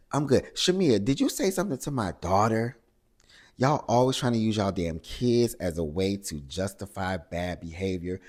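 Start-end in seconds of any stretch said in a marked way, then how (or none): 0.1-5.5 higher and louder, going straight at her; imitated confrontation. Angela turns on Shamea at the table in a raised challenge. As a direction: call her out by name, raised and sharp. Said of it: "Angela immediately goes at it".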